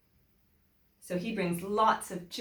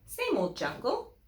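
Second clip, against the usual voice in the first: lively storybook reading with big swings; animated story voice for young listeners; reading to children; 2 semitones higher than usual. A narrator's reading. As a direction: read it to the class like a picture book. Teacher reads picture book aloud.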